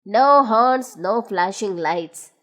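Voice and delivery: low, firm refusal; Big Ears firmly refusing new gadgets. A narrator's reading. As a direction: put your foot down, low. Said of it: "said Big Ears firmly".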